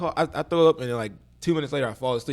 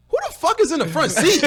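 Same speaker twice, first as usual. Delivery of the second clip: retold yell; 10 semitones higher, 3 dB louder than usual. Retold drunk yelling.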